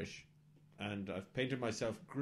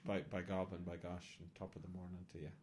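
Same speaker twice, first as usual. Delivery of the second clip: stock Irish brogue, quick and tailing away softly; mock Irish accent; 5 dB quieter than usual. Sidekick proving to the hosts he's Irish, mock Irish accent. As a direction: lay on a cliché Irish accent. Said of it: "that sounded fucking Irish".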